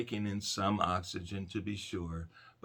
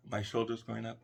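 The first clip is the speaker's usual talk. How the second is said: mock strained chest breathing; 3 semitones higher, 5 dB louder than usual. Shown as a demonstration. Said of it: "Am I straining like a son of a gun".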